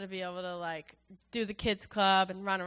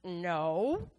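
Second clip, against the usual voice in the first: louder, higher, fast protest; emphatic refusal; 8 semitones higher, 7 dB louder than usual. Retold or imitated. Answering Armando's challenge, loud and emphatic. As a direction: push back hard, half laughing. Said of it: "And I'm like".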